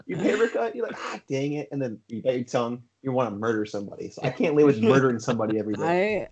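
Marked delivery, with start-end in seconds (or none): 1.0-1.7 softly grumbled minor curse; understated acted irritation; mild annoyance. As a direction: play down the pain, quieter. Contrasts minor paper cut with tongue.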